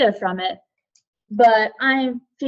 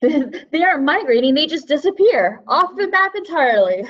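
lively and louder, breaking into a laugh; amused, laughing; 3 semitones higher, 4 dB louder than usual. Real, not acted. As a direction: say it through real amusement. Amused reaction to birds vanishing.

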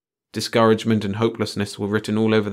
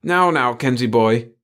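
high, louder cutting-in; hurried interruption; 4 semitones higher, 5 dB louder, slower than usual. A narrator's reading. Chief stopping Kenzie's tangent, hurriedly interrupting. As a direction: break in to head him off. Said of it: "the chief interrupted hurriedly".

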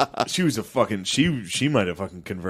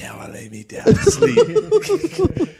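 very high, drawn-out bedtime prayer; mock tearful prayer; much slower than usual. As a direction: squeak out a slow, pitiful child's prayer. Acting himself praying in bed crying.

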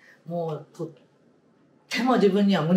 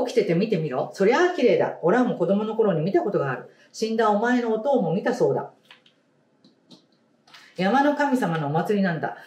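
lightly voiced old grandfather, a bit louder; grandfather voicing; 4 semitones higher, 4 dB louder than usual. Grandfather telling Mameta about the lit tree, lightly voiced old man. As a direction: tell it like a proud old grandpa.

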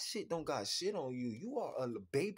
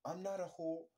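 mock innocent woman. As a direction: play it shy and innocent. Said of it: "look at a man face and be like".

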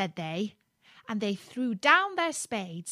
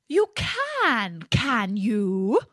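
yelping fox; 2 semitones higher, 4 dB louder, much slower than usual. Acted. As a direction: yelp it with sly glee. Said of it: "yelped the fox".

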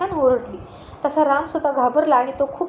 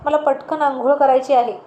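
raised voice calling through the door; 3 dB louder than usual. Acted. Husband calling to wife in the bathroom, raised voice. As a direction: call her out of the bathroom, a bit louder. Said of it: "Ram ओरडून म्हणाला".

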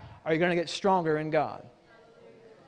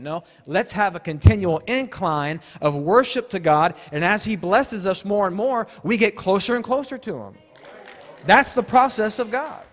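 raised, driving sermon voice; emphatic preaching; 2 semitones higher, 5 dB louder than usual. Real, not acted. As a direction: build with conviction to a firm declaration. Preacher rising in intensity.

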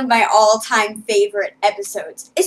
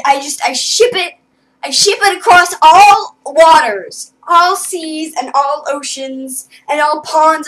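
excited; 2 semitones higher, 6 dB louder than usual. Real, not acted. Building fangirl declaration.

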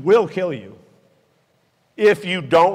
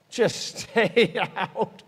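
"stay out" stretched very slowly and higher; drawn-out warning; 5 semitones higher, much slower than usual. Real, not acted. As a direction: plead with them, dragging out "stay out". Drawn-out warning to fellow pilots.

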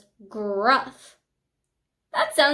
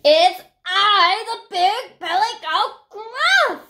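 loud, raised, drawn-out bellow; booming big goat; 8 semitones higher, 6 dB louder, slower than usual. A narrator's reading. Biggest goat answering the troll, booming loudly. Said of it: "his voice was as loud as the troll's".

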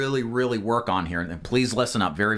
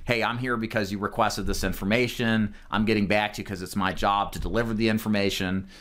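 straightforward; 3 semitones lower than usual. Shown as a demonstration. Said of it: "that kinda straightforward".

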